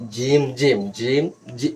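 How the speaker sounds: "জিম, জিম" in even beats to measure a stretch; said twice evenly. Shown as a demonstration. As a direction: time the length by repeating "জিম, জিম". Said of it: "এই দুইবার উচ্চারণ করছি". ("জিম, জিম" সমান তালে উচ্চারণ)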